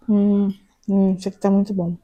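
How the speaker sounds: talking with a mouth full of food; chewing while saying it's delicious. Real, not acted. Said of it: "Falando de boca cheia". (falando de boca cheia)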